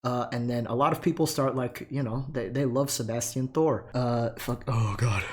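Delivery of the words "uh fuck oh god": winded, catching breath between words; breathless from talking so fast. Real, not acted. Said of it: "I'm out of breath".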